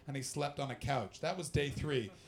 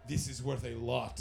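put-on lightly done comic Russian accent; imitated Russian accent; 4 semitones lower than usual. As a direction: lower mock-Russian voice. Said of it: "He gave me twenty ruples and went".

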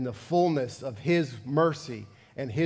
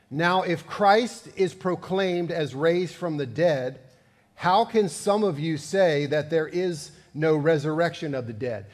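scripture reading. Acted. Reads scripture passage aloud.

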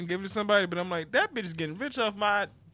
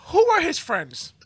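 put-on a rough, loud stab at a Cuban accent; bad Cuban accent; 9 dB louder than usual. Co-host mocking Sammy Sosa in a bad Cuban accent. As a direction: ham up a Cuban accent, badly. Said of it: "That's my best Cuban accent".

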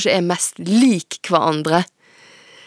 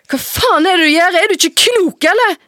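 much higher, louder outburst; furious shout; 12 semitones higher, 5 dB louder than usual. Acted. Daughter screaming at mother who took her phone. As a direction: yell at her for snatching the phone.

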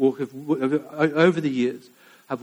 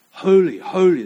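loud, higher proclaiming call; 6 semitones higher, 9 dB louder than usual. Acted. Seraphim calling to one another, calling out loud. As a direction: ring it out like an antiphonal cry. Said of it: "They're calling to one another".

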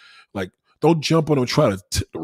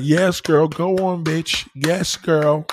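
higher and louder, camp cheerleading; imitating gay men cheering; flamboyant gay friend impression; 5 semitones higher, 4 dB louder, much slower than usual. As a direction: hype her up like a sassy friend. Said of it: "I know them gay niggas like".

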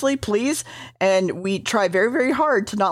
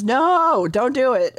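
a mild mock shout of protest, raised a little; retold scream; 3 semitones higher, slower than usual. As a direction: shout it like a half-hearted plea. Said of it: "runs off and screams".

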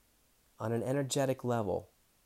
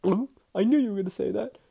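high, louder, fast knowing whine; mock exasperation; 10 semitones higher, 5 dB louder, faster than usual. Answering Dane's unhelpful tip, hammed-up exasperation. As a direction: ham up a rueful I-knew-it. Retold reply to Dane's advice.

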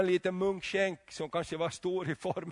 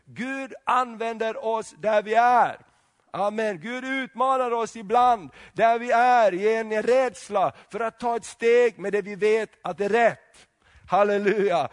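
louder, higher preaching voice; preaching at full force; 3 semitones higher, 5 dB louder than usual. Acted. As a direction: rouse the congregation. Preacher building to acclaim. (predikan med full kraft)

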